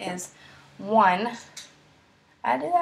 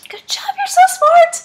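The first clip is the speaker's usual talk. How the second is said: whispered praise; 11 dB louder than usual. Pretend. Praising imagined students after an answer.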